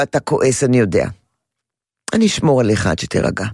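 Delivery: low, calm and steady; calm reassurance. Shown as a demonstration. Father calmly acknowledges the angry toddler's feelings. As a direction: soothe him, unhurried and low. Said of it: "תגיד לו".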